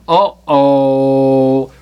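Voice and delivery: low, long drawn-out "uh-oh"; comic sense of trouble coming, held low; mock ominous uh-oh. Ominous aside at the storm.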